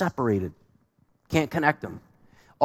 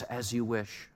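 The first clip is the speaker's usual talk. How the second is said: soft, devoted hush of a lover; a light hint of the hero's tender vow; quietly promising, a touch of romance; tender movie lover; 5 dB quieter than usual. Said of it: "it might sound like this".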